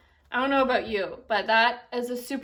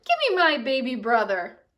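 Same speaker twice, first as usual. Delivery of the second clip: a touch louder demand; 5 dB louder than usual. Acted. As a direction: insist firmly. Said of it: "Kristen ... said".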